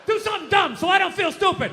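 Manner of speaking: put-on high, yelled drunk-guy plea. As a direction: shout it like a wasted bro.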